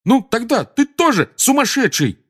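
high-pitched exasperated retort; irritated. A narrator's reading. Seamus calling Ron mad as well, irritated. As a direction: throw it back, annoyed. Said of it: "с раздражением бросил Симус".

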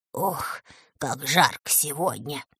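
soft, sighing complaint; complaining. Acted. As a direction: moan about the heat. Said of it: "начал жаловаться".

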